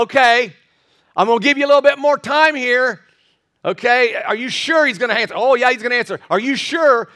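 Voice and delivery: mock-patient taunt, pitched a little up. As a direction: needle them with feigned doubt. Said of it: "Elijah began to taunt them".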